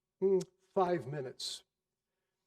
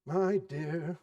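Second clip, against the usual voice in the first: mild answer. Acted. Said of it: "was Bob's mild answer".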